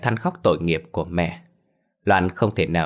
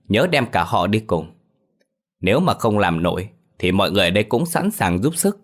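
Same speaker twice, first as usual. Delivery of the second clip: a touch of a haughty elder, slightly raised; lightly voiced domineering patriarch, condescending; arrogant clan head. Clan head banishing Phiên's family, lightly haughty.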